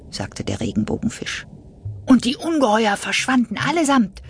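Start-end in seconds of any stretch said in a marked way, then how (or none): 2.0-4.2 high, louder joyful exclamation; cheerful call. Acted. Little fish telling the others, high cheerful call. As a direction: announce it with happy pride. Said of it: "rief der kleine Blaue fröhlich".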